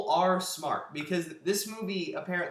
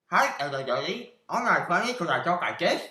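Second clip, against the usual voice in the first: mock dopey voice, faster, ending in a much louder strained ah; Nick Swardson impression; 3 semitones higher, 11 dB louder than usual. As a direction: imitate the actor's unfunny voice, then blurt the ah. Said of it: "It's Nick Swardson going like this".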